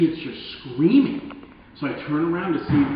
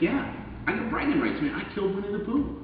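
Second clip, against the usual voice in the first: put-on bragging teen; 9 semitones higher than usual. Imagined gang kid bragging.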